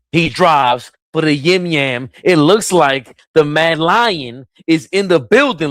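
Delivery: high, slow, stretched hype call; high, stretched announcer hype. Real, not acted. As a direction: call it like a big moment in the arena. Hype call of big play.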